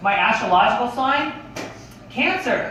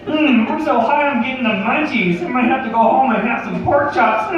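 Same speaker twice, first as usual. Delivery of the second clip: lightly voiced puppet frog; puppet-frog voice with a giggly finish; stoned frog puppet musing; Kermit the Frog; 2 semitones higher, 3 dB louder than usual. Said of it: "Kermit the Frog here".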